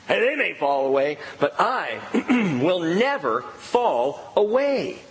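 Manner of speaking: slow, proud vow of a brash disciple; lightly acted bold promise; boastful Peter. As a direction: drag out never fall away like a cocky young believer.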